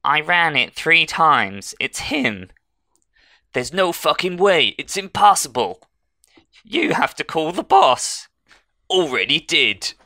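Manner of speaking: loud, high, shouted line reading; hammed-up line reading. Shown as a demonstration. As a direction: belt out the bad actor line. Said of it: "I'll go through the line".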